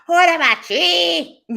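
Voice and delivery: high, slow mock yell; laughing shout. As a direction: yell it again, still giggling. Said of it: "I'm like".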